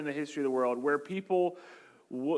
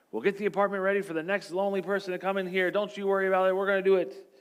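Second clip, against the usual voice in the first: chirpy company rep; 5 semitones higher, faster than usual. Retold or imitated. Company Next voiced cheerfully.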